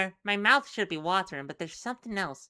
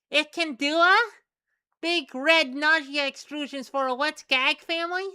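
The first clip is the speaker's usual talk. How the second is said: creature voice; 8 semitones higher, 9 dB louder than usual. Acted. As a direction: squeak it out like a little creature. Creature speaks in broken words.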